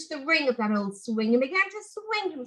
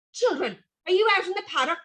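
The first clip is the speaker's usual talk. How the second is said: 1 mild mock shout; 7 semitones higher, faster than usual. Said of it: "he shouted as he ran".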